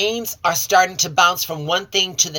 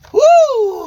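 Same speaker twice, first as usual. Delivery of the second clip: excited whoop; 8 dB louder than usual. Real, not acted. Reacting to wild reading.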